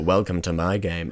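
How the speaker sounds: low imitation of a sinister game host; attempted Big Brother. Copying a voice heard before, low and sinister. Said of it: "I've heard the guy before".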